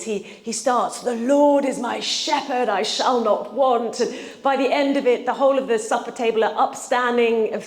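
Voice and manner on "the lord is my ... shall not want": velvety actor's voice. Retold or imitated. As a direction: declaim it like a stage actor showing off. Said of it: "in this beautiful velvety voice".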